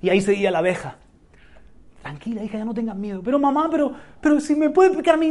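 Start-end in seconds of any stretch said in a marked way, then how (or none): 2.0-3.2 soothing mother. Acted. Mother calms daughter in story. 3.2-5.3 put-on worried little girl. Frightened daughter in story.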